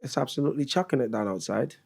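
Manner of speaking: lightly put-on British accent; British accent attempt. Shown as a demonstration. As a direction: repeat it carefully in a British accent. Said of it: "say them in your best British accent".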